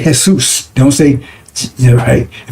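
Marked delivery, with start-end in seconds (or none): 0.0-0.7 Jesus said the Spanish way, as hay-SOOS; Jesus with an h sound and an oo; Jesus pronounced hay-soos. Shown as a demonstration. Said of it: "but they say Jesus".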